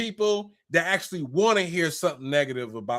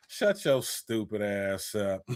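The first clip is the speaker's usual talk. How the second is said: slow, low line through laughter; laughing scoff; 9 semitones lower, 8 dB quieter, slower than usual. Pretend. Mocking a fake friend, laughing scornfully. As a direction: laugh while dismissing them.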